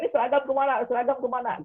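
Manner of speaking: a hint of panic in a retold mom; mock panicking mother. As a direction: play the frantic mom hunting the uniform. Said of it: "Bunda juga ikut panik".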